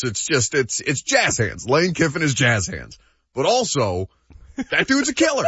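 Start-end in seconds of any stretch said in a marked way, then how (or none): 4.7-5.4 amused emphasis. Real, not acted. Punchline with a laugh after.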